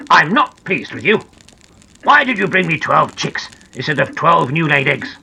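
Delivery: mildly stern storybook telling-off. Acted. Big Ears scolds Noddy about the eggs, mildly stern. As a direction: scold with restrained firmness. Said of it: "he said in a stern voice".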